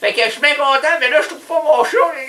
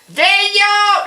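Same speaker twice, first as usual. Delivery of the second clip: calling out; 9 semitones higher than usual. Retold or imitated. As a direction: call across the house. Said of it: "Là, il disait, hein?".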